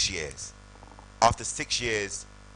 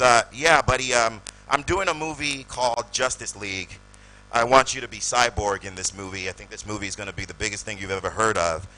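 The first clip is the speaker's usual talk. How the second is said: Zack Snyder impression; 8 dB louder than usual. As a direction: sell the offer like a pumped American director. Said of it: "another American dude".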